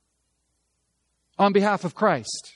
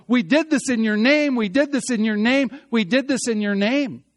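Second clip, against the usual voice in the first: "in your name" hammered by repetition, raised pitch; insistent stress on "in your name"; 4 semitones higher, 3 dB louder than usual. Acted. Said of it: "The emphasis is upon that idea".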